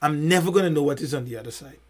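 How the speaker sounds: ordinary talk, nothing marked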